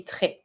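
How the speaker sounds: TRÈS ending on an "eh" vowel, no S; silent S, open E. Shown as a demonstration. Teacher giving the French for very, "très" with silent S. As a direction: say "très" without sounding the S. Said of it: "I don't pronounce my S".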